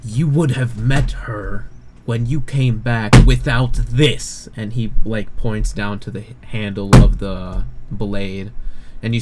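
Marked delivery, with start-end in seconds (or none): 0.0-4.5 loud, slow, emphatic reproach; angry. Acted. Commander slams his fist and rebukes the player, angry and emphatic. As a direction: hit the words hard and slowly. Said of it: "slams his fist on the table".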